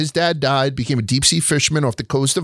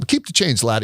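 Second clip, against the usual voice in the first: put-on Irish accent; 3 semitones lower than usual. Imitating his dad tipping the toll man, light Irish accent. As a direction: toss it off like a cheerful Irish tipper. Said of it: "in an Irish accent".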